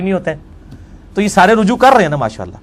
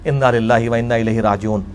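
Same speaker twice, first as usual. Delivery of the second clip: low, subdued Arabic recitation; dismayed lament; 10 semitones lower, 6 dB quieter than usual. Real, not acted. Lecturer reacting to a shocking religious ruling, low dismay. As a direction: drop low and soft, as if at a death.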